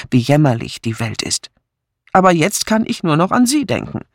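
lightly voiced young man in love, urging; a touch of agitated pleading; impassioned suitor. Suitor urging a silent woman to open up, mildly impassioned. Edmund pleads with Philippa in the story.

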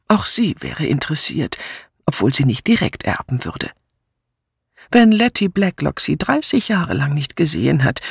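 a hint of an old lady telling a sad case; Miss Marple, nachdenklich erzählend. Miss Marple explains to her niece. (leicht angedeutete alte Tante, nachdenklich erzählend)

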